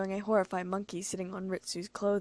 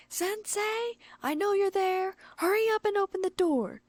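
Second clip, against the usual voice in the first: high, loud demanding shout; yelling; 12 semitones higher, 4 dB louder than usual. A narrator's reading. The stalker yelling at the door for her author to open up. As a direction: pound the door with the words. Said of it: "as she yelled".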